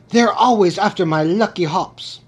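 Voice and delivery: a lightly put-on, badly faked Irish lilt; mock Irish accent, barely there; bad Irish leprechaun accent. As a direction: play a cheeky leprechaun in a half-hearted Irish accent. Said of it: "that was a really bad accent".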